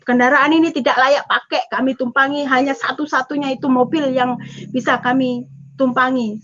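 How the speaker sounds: usual speaking voice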